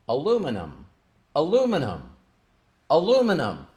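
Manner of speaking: hushed, moved repetition of "Aluminum"; emotional. Retold or imitated. Reliving first saying the word.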